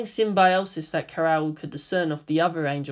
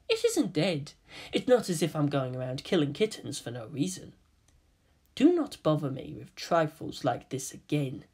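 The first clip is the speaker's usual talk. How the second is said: cold and quiet; 2 semitones lower, 6 dB quieter than usual. Acted. Kaoru coldly dismisses Kaji.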